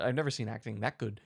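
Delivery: low, soft, calm star praise; half-hearted impression, quietly conceding; Robert Downey Junior. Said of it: "I can't really do a good impre".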